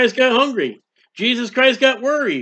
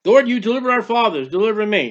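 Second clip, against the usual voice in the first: pleading prayer; faster than usual. Retold or imitated. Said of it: "That's what he's saying".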